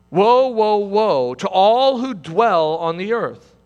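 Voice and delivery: proclaimed woe. Acted. Reads the eagle's cry.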